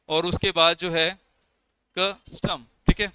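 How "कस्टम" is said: कस्टम split into two parts; divided into syllables. Shown as a demonstration. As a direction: break कस्टम apart before the final syllable. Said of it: "इस तरह से इसको divide किया हमने".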